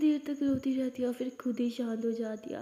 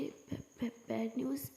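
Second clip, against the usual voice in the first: upset stammer; 3 semitones lower, 6 dB quieter than usual. Acted. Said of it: "upset होके बोलती है".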